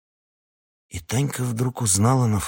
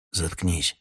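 tired, softer shut up; weary; 3 semitones lower, 5 dB quieter than usual. Acted. Husband wearily silences his wife. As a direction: say it worn out. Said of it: "устало сказал Ермил".

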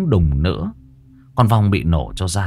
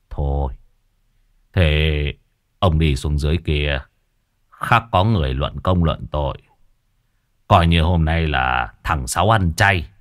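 sighing exorcist; 3 semitones lower than usual. Acted. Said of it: "Cậu thở dài".

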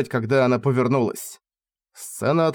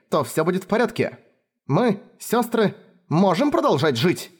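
put-on a lightly higher girl's voice, steady and firm; older sister reassuring; 5 semitones higher than usual. Kefar comforting her frightened younger sister, reassuring and firm. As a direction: talk the little one down, calm but sure.

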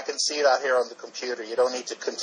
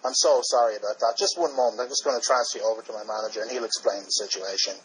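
hotel clerk voice. Acted. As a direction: play a nervous desk clerk passing the call on. Prank caller as hotel clerk.

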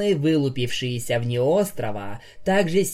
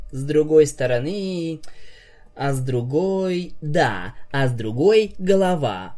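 pompous; 2 semitones higher than usual. Acted. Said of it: "важно кивнул маг".

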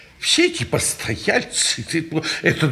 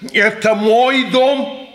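agitated protest; 3 semitones higher than usual. Acted. Old man demanding peace in his own house, agitated protest. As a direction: insist with mounting fluster.

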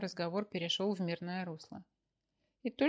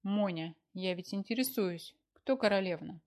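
stern questioning; 4 dB louder than usual. Acted. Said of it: "Грозно уставилась она на супруга".

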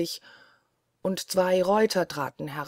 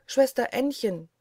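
Blaubarts Frau; 6 semitones higher than usual. Acted. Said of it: "rufte sie ihre Schwester".

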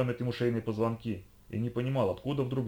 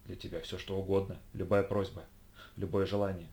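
groveling; 3 semitones lower, 5 dB quieter than usual. Acted. Groveling agent.

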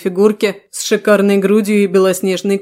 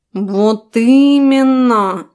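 knowing cat voice; 3 semitones higher, 3 dB louder, much slower than usual. Acted. Cat's retort.

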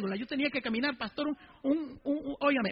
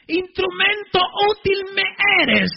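preached divine quote; 8 semitones higher, 10 dB louder, slower than usual. Retold or imitated. Preacher voices God's call.

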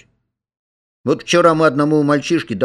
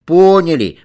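loud high answer as a whole class; class chorus; 7 semitones higher, 8 dB louder than usual. A narrator's reading. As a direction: call it out as one class. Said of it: "отвечает класс".

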